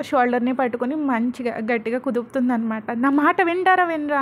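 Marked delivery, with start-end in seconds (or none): 2.9-4.2 put-on raised, louder angry yell at the kids; narrated shout. A narrator's reading. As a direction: scold the children loudly in anger. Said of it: "గట్టిగా అరుస్తుంది". (పిల్లల మీద గట్టిగా కోపంగా అరుపు)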